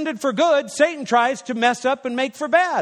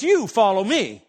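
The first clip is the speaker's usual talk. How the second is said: Jesus, lightly voiced; 3 semitones lower than usual. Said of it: "And Jesus says".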